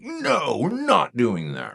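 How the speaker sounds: drawn-out mock killjoy no; exaggerated stern veto; crushing refusal. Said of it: "be careful about just crushing that".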